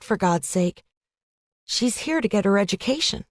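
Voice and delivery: a hint of a fretful college girl, pleading; worried roommate.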